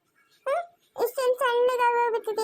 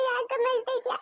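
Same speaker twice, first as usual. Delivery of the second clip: crying. Real, not acted. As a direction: sob between the comforting words. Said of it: "ನೀನ್ ಅಳೋದ್ ನೋಡಿ ಅವನು ಅಳ್ತಾವ್ನೆ".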